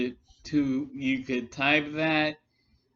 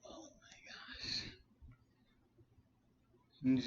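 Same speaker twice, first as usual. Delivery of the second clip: breathless, whispered disbelief; real whispered groan of disbelief; whispered "oh my gosh" in exasperation; exasperated whisper; 16 dB quieter, much faster than usual. Real, not acted. Exasperated at stupid comment.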